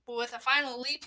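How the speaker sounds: usual speaking voice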